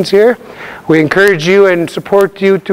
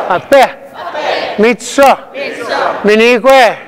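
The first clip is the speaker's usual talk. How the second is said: raised teaching voice, falling at each word's end; louder; 2 semitones higher than usual. Shown as a demonstration. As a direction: call each word out a little louder for the class.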